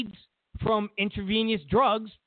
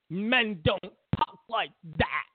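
mocking quote. Mocking others' outrage, slow first take.

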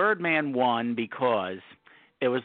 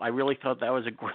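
bluetooth cutting out; faster than usual. Real, not acted. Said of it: "we're losing you".

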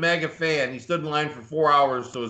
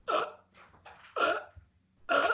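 mock winded gasps; 7 dB quieter than usual. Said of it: "he's like".

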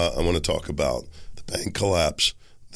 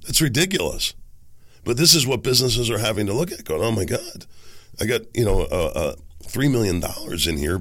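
hoarse from a cold. Real, not acted. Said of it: "but my voice sounds really bad".

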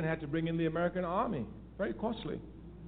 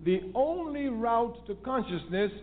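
"only" stretched and raised above the rest; stress on ONLY; 5 semitones higher, slower than usual. Real, not acted. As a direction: underline "only" with the voice. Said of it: "underline the word only".

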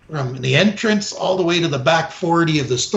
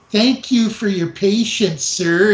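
phony politeness; 4 semitones higher, slower than usual. Retold or imitated. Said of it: "like a phony cunt that he is".

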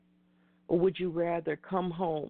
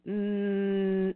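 a single firm, drawn-out no. Shown as a demonstration. Host leads listeners to say no, firmly. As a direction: say it like you mean it. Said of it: "Say it with me".

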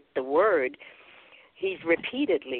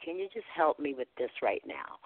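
afraid, praying; 7 dB quieter than usual. Retold or imitated. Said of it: "I said, "Lord, I'm afraid".

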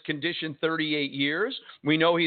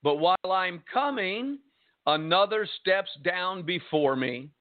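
slow, raised-pitch plea of a frustrated man; 4 semitones higher, slower than usual. Acted. Impotent man answers Jesus at the pool, frustrated. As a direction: plead slowly with pent-up frustration. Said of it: "You could almost hear the frustration in this man's voice".

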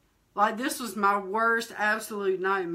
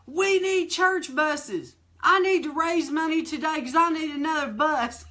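preacher voice; 5 semitones higher than usual. Retold or imitated. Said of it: "he goes".

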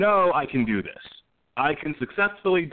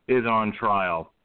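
ordinary delivery

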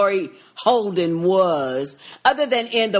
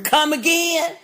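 mock stiff line; 6 semitones higher than usual. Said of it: "Oh, hell no".

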